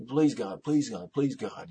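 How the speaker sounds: repeated, understated begging; lightly acted appeal to God; pleading. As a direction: plead in a quick string of entreaties. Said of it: "you're pleading with God".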